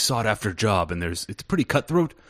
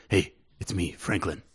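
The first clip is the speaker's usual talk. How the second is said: hushed, softer voice through the door; whispered voice; 4 semitones lower, 5 dB quieter than usual. Acted. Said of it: "you hear a whispered voice".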